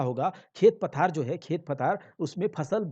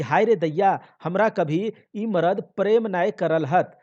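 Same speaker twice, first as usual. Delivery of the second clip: loud lament; 3 semitones higher, 5 dB louder than usual. Acted. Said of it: "अपने दुहाई देने लगती है".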